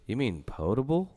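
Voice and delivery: "potable" detto con la o lunga, come pot-able; correcting pronunciation. Retold or imitated. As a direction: say potable with a long o. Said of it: "I'm like".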